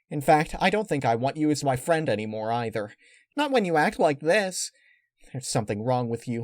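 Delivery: put-on high pony girl breaking up with a friend; upset Pinkie Pie.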